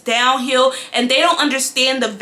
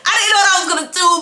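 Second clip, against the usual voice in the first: panicked, fast; 5 semitones higher, much faster than usual. Real, not acted. Panic over cancelled hair.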